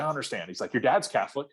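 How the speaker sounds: lightly voiced grumpy old grandfather; a mild hint of a cranky old man insisting; a touch cranky. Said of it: "he got a little cranky".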